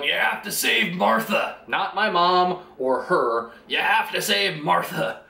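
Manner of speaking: a lightly voiced pleading Superman. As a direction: mock-desperate begging, drawn out. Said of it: "Superman's going".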